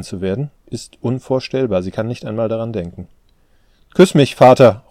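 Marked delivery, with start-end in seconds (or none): 3.9-4.8 loud, higher plea; calling out. A narrator's reading. Daughter begging her father for a kiss, calling out. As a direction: call it out, pleading. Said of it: "ruft sie".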